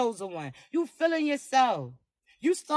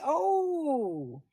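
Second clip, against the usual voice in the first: flustered cute oh; 6 dB quieter than usual. Retold or imitated. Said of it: "Cheeks all red and flustered".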